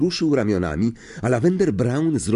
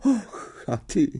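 high, slow seer calling to Neville; single out the boy with a lilt; a bit louder; 11 semitones higher, slower than usual. A narrator's reading. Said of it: "dodała nieco głośniej".

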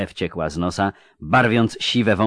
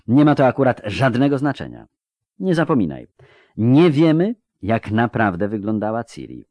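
higher, insistent correction; sharp interruption; 3 semitones higher than usual. Acted. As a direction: cut in and press the point pointedly. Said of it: "przerwała ostro Nimue". (ostro, z naciskiem, podniesionym tonem)

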